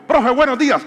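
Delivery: put-on high, loud boy greeting teacher; cheerful kid voice greeting the teacher; imitating son.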